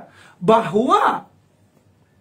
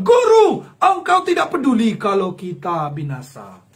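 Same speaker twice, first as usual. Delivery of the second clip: panicked disciples; 2 semitones lower, 4 dB louder than usual. Acted. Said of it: "tindakan Yesus".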